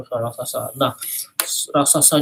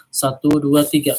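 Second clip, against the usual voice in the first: louder, heavy giant count; giant footsteps count; 5 dB louder than usual. Shown as a demonstration. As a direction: stomp out each number like a giant. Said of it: "suaranya raksasa, kakinya seperti apa langkahnya".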